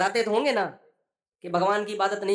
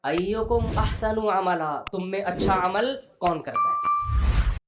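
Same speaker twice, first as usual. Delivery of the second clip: slow emphatic recitation; slower than usual. Acted. Recites verse and translates.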